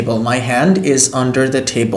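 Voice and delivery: very slow, careful English; teacher modelling pace; slow model sentence. Shown as a demonstration. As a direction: read it out slowly for the class. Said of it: "teacher models sentence slowly".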